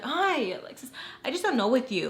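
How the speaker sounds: mock the housemate's weary exasperation; exasperated. Housemate scolding the teller over wanting to go back, exasperated.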